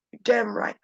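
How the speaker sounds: choked, tearful and hushed; crying anger. Acted. The dead man tells the people, angry and crying. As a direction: fight back tears in fury. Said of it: "I'm crying because I'm angry".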